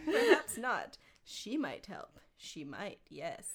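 scheme to yourself, trailing into near whisper; theatrical creature muttering a plan; Gollum, plotting. Acted. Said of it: "a theatrical voice".

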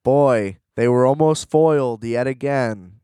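mocking the plot like a cheesy cartoon narrator, loud and hammy; mock announcer. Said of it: "It's like".

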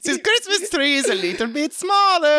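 high, hammed-up Santa voice; bad German Santa. Santa impersonator by his tree, high silly voice. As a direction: remark on it in high mock German.

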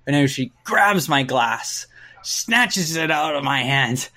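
ordinary delivery

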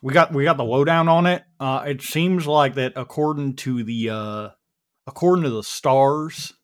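folksy Texan, lightly put on; casual Texas twang, halting with uh's; Texas accent. The speaker gives the group the lowdown, light Texas accent. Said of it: "I'm doing my best yeehaw here".

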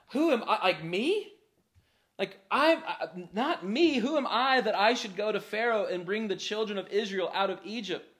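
mock disbelief, pitch jumping up on the questions; incredulous Moses. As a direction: play a baffled "who, me?". Voicing Moses doubting his call.

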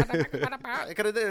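laughing through the words. Real, not acted. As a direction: chuckle it out, slow. Laughing while arguing.

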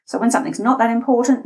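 quick, throwaway delivery; rattled over quickly. Shown as a demonstration. Voice coach showing how unimportant points sound, rattled off quickly. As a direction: rattle through it as if it hardly matters. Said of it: "notice how quickly I just spoke".

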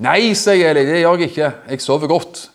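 a mildly stern, sleepy dismissal; stern old priest. Acted. Eli sends the boy back to bed, mildly stern. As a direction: brush the boy off gently but firmly. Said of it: "Kanskje sa jeg det strengt".

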